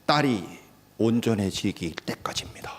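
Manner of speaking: hushed, breathy answer; whisper. Real, not acted. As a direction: whisper it as a secret.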